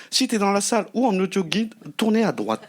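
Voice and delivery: lightly voiced sat nav directions; a hint of a robotic navigation voice; gps voice. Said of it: "elle a parlé comme un G P S".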